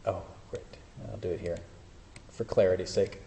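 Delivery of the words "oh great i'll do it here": ordinary talk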